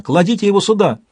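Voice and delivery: a high, urgent call; shouted call. A narrator's reading. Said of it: "закричала она". (высокий срочный окрик)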